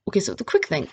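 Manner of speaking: ordinary talk, nothing marked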